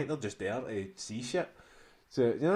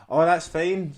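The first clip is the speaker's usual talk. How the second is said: slow and polite; 7 semitones higher, 11 dB louder, slower than usual. Retold or imitated. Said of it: "speaking pure slow and polite".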